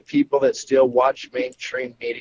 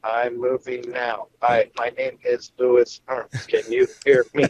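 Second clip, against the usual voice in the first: choppy audio. Real, not acted. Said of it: "we got a choppy audio feed now".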